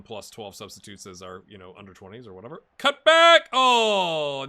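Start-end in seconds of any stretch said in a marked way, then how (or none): 2.8-4.4 high, loud shout at the screen; sudden loud call; excited shout. Real, not acted. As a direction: yell the move out as it happens. Shouting at the match.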